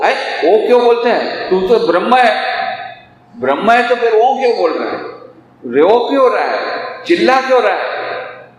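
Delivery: high, pointed teasing questions; mock challenge. Preacher challenging the crying seeker, mock incredulous questioning. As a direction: needle him with high-pitched questions.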